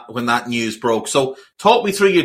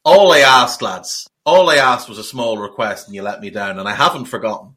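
mock grave grievance; 9 semitones lower than usual. Host mock-scolds his guest over the jinx, hammed-up grave and hurt. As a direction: pretend solemn reproach, dragging it out.

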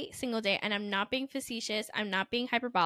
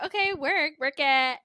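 higher, punchy hype building louder; cheering on; 4 semitones higher, 5 dB louder than usual. Retold or imitated. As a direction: hype up a performer mid-dance. Retold cheering on the performer.

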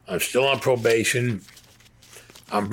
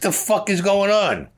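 much higher and louder, slowed and stunned; shocked outburst; 10 semitones higher, 4 dB louder, slower than usual. Retold or imitated. To the agents after the fake hit, stunned outburst. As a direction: demand to know what just happened.

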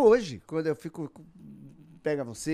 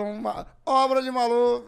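Maluf; 7 semitones higher, 8 dB louder, slower than usual. Acted. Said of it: "o Maluf".

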